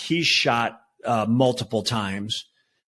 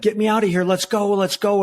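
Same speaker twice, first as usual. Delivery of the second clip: higher-pitched, mildly raised mock yell; retold screaming; 8 semitones higher, 3 dB louder than usual. Officer retelling the gunman's demands to escape, mock yell. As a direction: imitate a panicked order without fully screaming. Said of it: "He was screaming at me".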